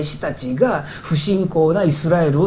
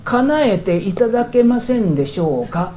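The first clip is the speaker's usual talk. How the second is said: courteous, slightly higher-pitched plea; polite request; 4 semitones higher than usual. Shown as a demonstration. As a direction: ask very politely, as a humble favour. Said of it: "丁寧に言えばどうなりますか".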